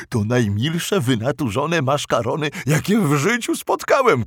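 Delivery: monster voice, delighted; clumsy monster voice. Acted. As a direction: say it in the creature's voice. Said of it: "zauważył stwór".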